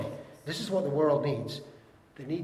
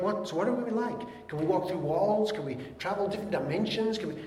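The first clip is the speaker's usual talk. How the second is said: high, eager rush of questions; mock speculator; 4 semitones higher than usual. People speculating about heaven, high and eager. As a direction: pile on the questions like a curious fan. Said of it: "people speculate".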